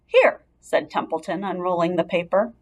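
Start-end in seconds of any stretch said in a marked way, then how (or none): 0.1-0.5 rat's voice. A narrator's reading. Rat voiced, high.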